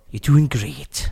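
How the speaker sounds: slow, put-on Scouse catchphrase; drawn-out Liverpool imitation; mock Liverpool accent. Podcaster winding up co-host who says stop it, mock Liverpool accent. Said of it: "Liverpool now".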